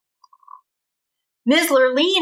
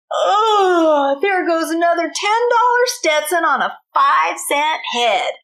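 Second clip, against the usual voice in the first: complaining; 5 semitones higher than usual. Acted. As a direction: moan about the dull dancers. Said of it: "she complained".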